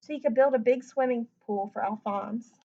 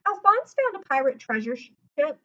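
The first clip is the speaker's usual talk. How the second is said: too excited; 4 semitones higher, 5 dB louder than usual. Shown as a demonstration. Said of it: "I got too excited".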